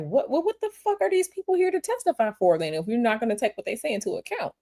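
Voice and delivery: high, incredulous outburst that drops off fast; she's baffled the court won't hear the witnesses, disbelieving; outraged disbelief. Retold or imitated. Reacting to the courtroom ruling, incredulous and exasperated. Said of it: "And I'm just like".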